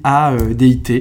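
letter by letter, spelling the name. Shown as a demonstration. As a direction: spell out each letter clearly. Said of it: "Zach, ça s'écrit avec un K".

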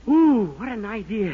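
slow, gloating over a clever scheme, laughing; sly delighted laugh. Acted. Dennis pleased with his own sneaky plan, gleeful laugh. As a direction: savour the idea, then break into a giggle. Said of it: "am I a dirty sneak".

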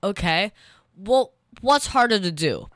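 ordinary talk, nothing marked

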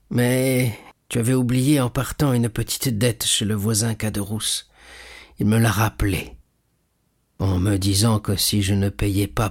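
lightly voiced old man, halting; hesitant old father. Old father confessing he paid his son's debt, haltingly.

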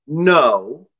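a calm, firm no; steady and unbending; calm but firm. Acted. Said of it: "in a calm but firm voice".

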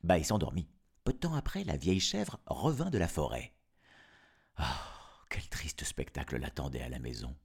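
put-on storyteller reading to children; story narration. Narrator telling of the wolf's trick, story narration. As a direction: tell it as a fairy tale, with lilting phrases.

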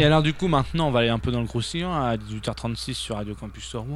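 talking with a mouth full of food; words muffled round a bite. Real, not acted. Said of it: "Il a la bouche pleine".

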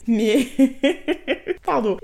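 sudden nervous giggle, then sorry; nervous laugh. Real, not acted. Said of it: "Et c'est un rire nerveux".

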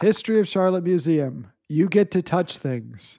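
slow, measured tagline delivery; tongue-in-cheek marketing slogan; mock slogan. Voices a mock T-shirt marketing slogan.

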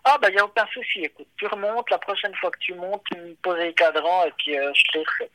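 breezy no-problem tone from the friend; friend's easy reply. Retold or imitated. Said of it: "il me fait".

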